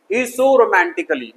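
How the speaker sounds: "romantically" slowly, ending in a full "कली"; drawn-out romanti-kali in "romantically"; wrong pronunciation. Shown as a demonstration. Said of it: "no, गलत". (गलत उच्चारण, romantically में धीमा "कली")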